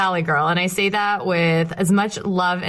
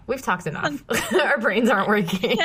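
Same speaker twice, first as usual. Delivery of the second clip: laughing; 3 semitones higher than usual. Real, not acted. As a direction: giggle through it. Hosts giggling at themselves.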